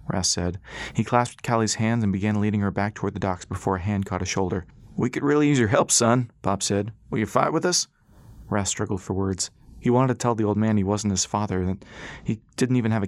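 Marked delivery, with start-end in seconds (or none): 5.0-7.9 put-on old man voice. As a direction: ask him to fight, earnestly. Pop pleading with Rass.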